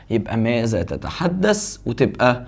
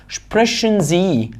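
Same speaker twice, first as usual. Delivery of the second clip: slow dictation; 4 semitones higher, much slower than usual. Shown as a demonstration. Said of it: "slow model of the question".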